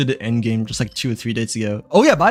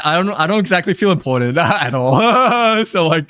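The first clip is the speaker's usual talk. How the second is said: laughing; 4 semitones higher, 3 dB louder than usual. Real, not acted. Laughing while saying it.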